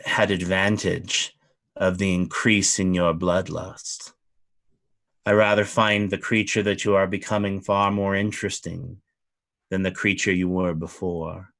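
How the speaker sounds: a regal lord of the fey court, unhurried; a hint of a lofty fey noble; fey duke. GM voices the Duke.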